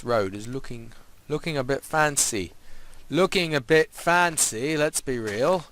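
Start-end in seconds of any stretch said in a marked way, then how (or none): 3.1-5.7 slow, drawn-out thrown-on voice; put-on voice. Player admires his road for viewers, slow put-on voice. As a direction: chuck on a silly voice, stretching the words. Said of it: "me voice that I've just thrown".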